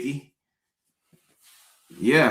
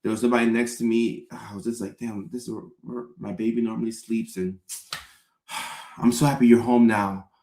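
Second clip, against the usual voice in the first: fake sentimental; 3 semitones lower than usual. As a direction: overplay missing her with sighs. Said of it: "we have to be like".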